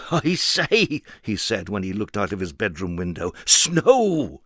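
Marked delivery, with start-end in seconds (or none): 0.1-1.0 higher, delighted exclamation; excited. Acted. Mister Silly at his window, higher and delighted. 3.4-4.4 higher, delighted exclamation; excited. Acted. Mister Silly at his window, higher and delighted.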